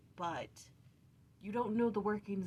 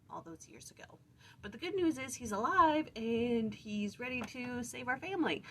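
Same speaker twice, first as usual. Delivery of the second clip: higher, hesitant confession with a brave finish; sheepish sons; 4 semitones higher than usual. Pretend. Sons telling father Jacob the awkward truth, sheepish then upbeat. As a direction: break bad news awkwardly, then brighten.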